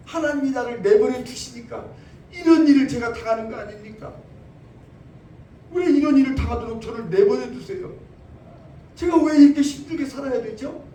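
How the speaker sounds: loud, pleading cry of despair; despairing complaint. Pretend. Preacher acting a believer who cries out that God abandoned them.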